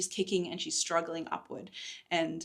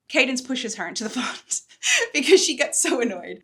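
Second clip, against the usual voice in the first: amused laughing; 6 semitones higher, 11 dB louder than usual. Real, not acted. Narrator laughing at the push.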